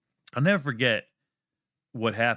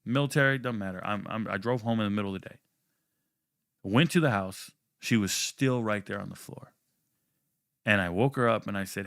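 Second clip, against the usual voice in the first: ordinary delivery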